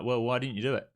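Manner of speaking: lightly voiced scolding inner ego; the nagging inner critic, mildly acted; ego talking. Trader voicing his ego scolding himself, mild mock scolding. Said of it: "That's the ego talking, being like".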